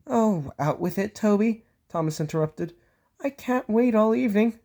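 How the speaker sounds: high, fussy and impatient engine; an engine tutting about being late; Thomas's voice. Acted. Thomas fretting he'll be late, high and fussy.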